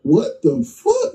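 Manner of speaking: high, slow drawn-out shock; retold disbelief. As the gun jams on the robber, high slow stunned disbelief. Gun clicks empty mid-fight.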